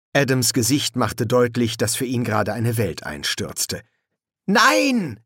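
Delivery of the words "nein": high, strained croak of horror; hoarse croak. A narrator's reading. Boy sees his world collapse, hoarse high croak. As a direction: croak it out, aghast at yourself. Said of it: "krächzte er heiser".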